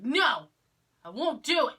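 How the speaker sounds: mock-stubborn outburst, voice jumping up; defiant refusal. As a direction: play up a childlike refusal. Acting out refusal to doctor.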